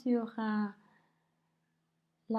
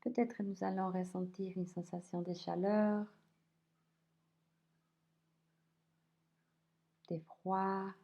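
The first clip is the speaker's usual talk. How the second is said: unhurried body scan voice, leaving space between phrases; guided meditation; 3 semitones lower than usual. Acted. Teacher guiding listeners through a body scan, calm guided meditation.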